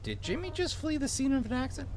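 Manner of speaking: high, incredulous Minnesotan cop; Minnesotan-accented officer calling after a runaway; vaguely Minnesotan accent. Acted. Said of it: "give him a vaguely Minnesotan accent".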